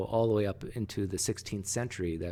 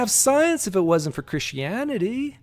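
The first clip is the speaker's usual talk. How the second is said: mock Christian retort; 11 dB louder than usual.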